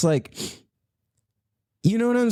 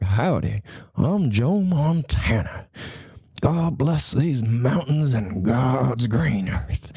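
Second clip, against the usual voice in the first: slow, folksy cowboy voice; a hint of a mountain cowboy, drawn out; lightly voiced slow Montana rancher; 2 semitones lower, much slower than usual. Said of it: "or if you're from Montana".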